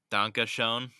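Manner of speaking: German said in a thick American accent; loud Danke schön with an American accent. Shown as a demonstration. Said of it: "speaking German in my full American accent".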